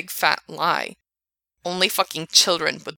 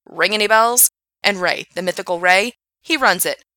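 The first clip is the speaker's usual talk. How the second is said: angry rant; 2 semitones higher, 6 dB louder than usual. Acted. Frank ranting at Gerard.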